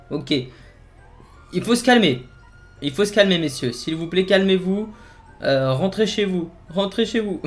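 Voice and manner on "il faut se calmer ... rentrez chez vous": polite cop voice. Pretend. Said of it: "je pense pas qu'il parle comme ça".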